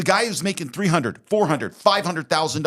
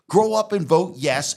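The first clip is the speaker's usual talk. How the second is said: exasperated; 5 semitones higher, 3 dB louder than usual. Real, not acted. Scolding lawmakers to grow up.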